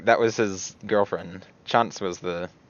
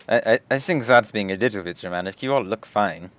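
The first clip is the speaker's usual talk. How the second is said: The speaker in character. Acted.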